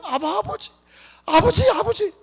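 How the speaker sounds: rising fervent cry. Shown as a demonstration. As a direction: call out to God like a child. Demo of crying out to God. (점점 높아지며 간절하게 부르짖는 소리)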